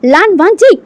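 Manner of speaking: a sudden high, loud cry of his name; shouting his name. Acted. Jilted fiancée bursting in, screaming his name. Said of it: "वो चीख कर कहती है".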